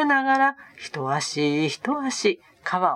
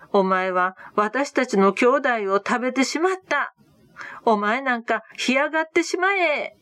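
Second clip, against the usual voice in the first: cursing the river; 5 semitones higher than usual. Acted. Disciples shouting curses at the river that took their brother. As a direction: rail at the river, stretching each insult. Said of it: "みんなは川に向かって叫びました".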